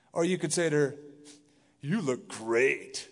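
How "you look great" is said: slow, drawn-out "You look great"; flat compliment. Shown as a demonstration. Pastor showing the same words meaning something else, slow and drawn. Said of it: "Same words, different meaning".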